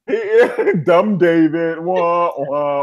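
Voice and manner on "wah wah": drawn-out mock sad-trombone wah; slow, comic falling wail. Co-host jeers at a dumb character, mock wah-wah.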